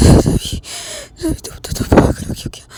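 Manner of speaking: 1 shocked whisper. Acted. Shocked after gunshot.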